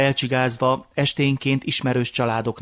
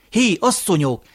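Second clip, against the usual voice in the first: higher, falling call to the women; loud calling out; 7 semitones higher, 4 dB louder than usual. A narrator's reading. Grandfather hailing the sleeping women, first loud call. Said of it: "Hangosan szólongatta őket".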